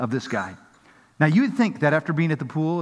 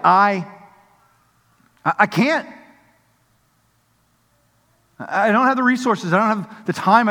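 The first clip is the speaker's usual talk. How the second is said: defeated; 5 semitones higher, 5 dB louder than usual. Acted. Voicing the despairing man.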